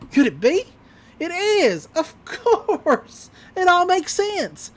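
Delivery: high, dramatic dawning discovery; mock realization. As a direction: let it dawn on you like a cartoon villain. Acts villain's sudden realization.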